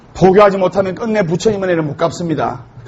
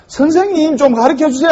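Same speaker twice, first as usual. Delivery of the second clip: put-on higher childlike call; child calling; 6 semitones higher than usual. First graders calling their teacher, higher childish voice. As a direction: pipe up like a small kid.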